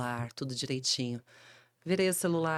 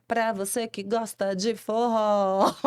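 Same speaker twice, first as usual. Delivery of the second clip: locução de rádio arrastada; vinheta de rádio; 4 semitones higher, slower than usual. Retold or imitated. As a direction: imitando a vinheta da rádio, devagar. (locução de vinheta arrastada)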